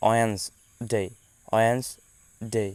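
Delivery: ওয়েডনেসডে slow, with the middle d dropped, falling; correct pronunciation. Shown as a demonstration. Teacher modelling ওয়েডনেসডে slowly for learners. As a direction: say ওয়েডনেসডে slowly as 'wenz-day'. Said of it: "এটা উচ্চারণ করতে হবে এইভাবে".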